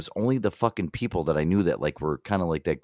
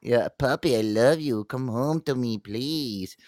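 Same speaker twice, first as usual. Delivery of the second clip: mock lovelorn plea; 4 semitones higher than usual. Joking about calling him Poppy, mock lovelorn pleading. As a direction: plead like a pretend lovesick sweetheart.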